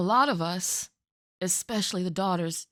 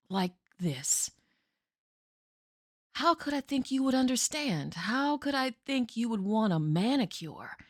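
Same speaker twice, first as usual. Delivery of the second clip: grave stage monologue of a daughter to her mother; desperate daughter Jessie. Acted. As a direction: make Mama finally understand. Performs Jessie's monologue from Night Mother.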